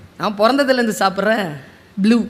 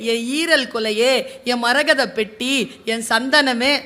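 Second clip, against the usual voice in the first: soft, tender cooing endearments; grandmother cooing; 4 dB quieter, slower than usual. Retold or imitated. Grandmother softly coos endearments to a baby, tender. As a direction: croon lovingly to a baby. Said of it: "என் அம்மாமா கொஞ்சுவது".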